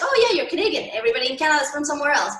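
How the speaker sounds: high, fast, easygoing shrug-off; breezy Canadian reply. Retold or imitated. Canadian accepting her claim without a second thought, breezy and quick. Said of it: "They'll be like".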